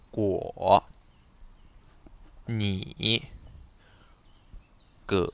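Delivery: «guo, ni, ge» au troisième ton, descente puis remontée; troisième ton chinois. Shown as a demonstration. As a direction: third tone on guo, ni, ge, down then up. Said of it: "La même chose". (troisième ton sur chaque syllabe)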